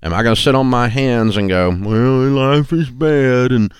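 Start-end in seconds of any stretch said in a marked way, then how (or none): 1.7-3.7 higher, dragging whine of a sour pessimist; sour pickle-faced grump. Retold or imitated. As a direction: moan it like you've been weaned on a pickle. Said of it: "You sound like the guy's had a pickle".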